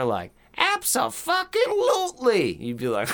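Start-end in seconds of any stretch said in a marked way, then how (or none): 1.3-2.5 very high squeaky dummy voice. Retold or imitated. The little dummy greeting him around the corner, squeaky high voice. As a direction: squeak it like the ventriloquist doll. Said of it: "if this little dummy turned the corner".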